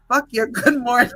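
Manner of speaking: laughing mock snap; retold retort, laughing. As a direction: deliver the punchline while cracking up. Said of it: "he said".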